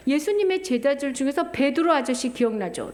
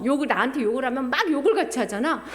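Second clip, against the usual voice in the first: fast, laughing retelling; faster than usual. Acted. Preacher laughing at cursing back, fast. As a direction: rush it out with a laugh. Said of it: "repeated faster with laugh".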